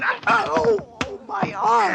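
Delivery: high yelps of pain; pain cry. Acted. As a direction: cry out as your arm is twisted. Arm twisted in struggle.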